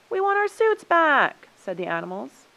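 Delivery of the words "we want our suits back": high, loud, slow demand; raised-voice storybook protest; indignant demand. A narrator's reading. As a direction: demand it back, leaning on each word. Animals demand suits in quarrel.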